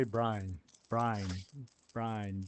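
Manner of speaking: "Brine" in one syllable each time; repeated one-beat "Brine"; local Southern "Brian". Shown as a demonstration. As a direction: say Brian as "Brine", rhyming with "line". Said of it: "people around here, they say".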